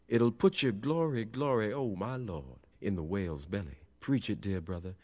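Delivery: sermon cries falling away in pitch and volume; impassioned preaching. A narrator's reading. Preacher answered by his urging congregation, fervent. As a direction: chant it like call-and-response.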